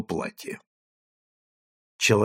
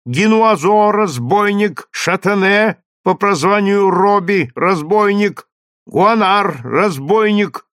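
slow, loud and higher, like a trumpet; booming crier; 8 semitones higher, 4 dB louder than usual. A narrator's reading. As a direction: boom each word out like a trumpet. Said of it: "Глашатый продолжал читать".

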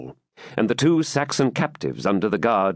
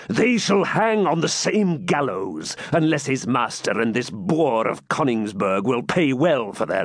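menacing Norman baron; 5 semitones higher than usual. Acted. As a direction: draw out each threat to the captives. Baron decrees their fate.

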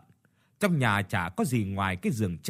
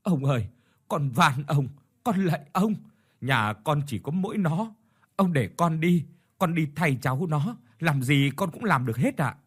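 mother begging the landlord to spare her son, desperate plea; 4 semitones higher than usual. Acted. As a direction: beg as if clinging to his feet. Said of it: "lạy lục van xin".

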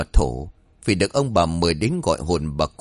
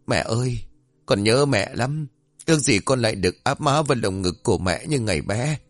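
mild sob in the voice; choked up; 3 semitones higher than usual. Acted. Son calls after the departing medium, mildly tearful. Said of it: "vẫn nghẹn ngào".

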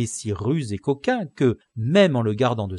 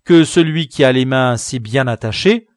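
urgent plea; 3 semitones higher, 10 dB louder than usual. Acted. Don Quichotte pleads.

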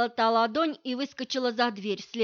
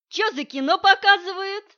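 higher and louder brash call; loud startled call; 9 semitones higher, 9 dB louder than usual. Acted. Masha bursts into the hallway, brash loud call. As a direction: barge in loudly, pitched up.

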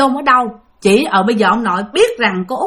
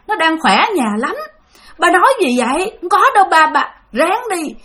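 higher, fast, brushing it off; forced cheerful denial; 5 semitones higher than usual. Retold or imitated. Aunt lies to her dying father, quick and high, holding back tears. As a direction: hide the grief behind quick reassurance. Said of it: "vẫn cố gắng kìm lại nói".

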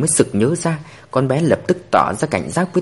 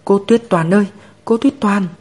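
put-on sobbing child; 6 semitones higher than usual. A narrator's reading. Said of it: "Nha Nha òa khóc nức nở".

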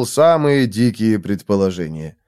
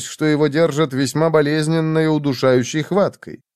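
ordinary delivery

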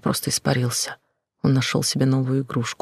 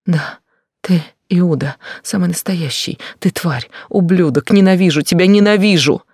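higher, louder, building to a scream; furious outburst; 5 semitones higher, 7 dB louder than usual. Acted. Betrayed girl screams hatred at her lover, building to a yell. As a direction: hurl the hatred at him, rising.

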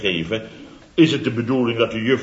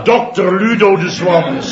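raised, louder and grand, savouring the title; lofty self-introduction; 5 semitones higher, 4 dB louder than usual. Retold or imitated. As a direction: introduce yourself as the important doctor. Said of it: "Met dat, eh, de, eh, toontje van me". (deftig en hoger, met nadruk op dokter Ludo de Zwans)

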